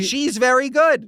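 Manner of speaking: high, slow put-on voice; a silly high character voice; playful high put-on voice; mock voice. Mock voice on rosemary joke.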